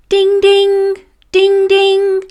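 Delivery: sung bell chime, high and level; bell imitation. A narrator's reading. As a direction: ring out like a school bell. School bell chiming.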